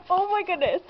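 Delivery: high, gushing amazement between gasps; overjoyed, pitch lifted in delighted disbelief; real excitement. Real, not acted. Gift opener getting a long-wanted clip, excited. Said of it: "You have no idea how excited I am right now".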